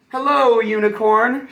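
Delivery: high, sing-song hello; cheerful greeting. Acted. Mermaid greeting Unicorn, high and cheerful. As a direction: greet a friend brightly.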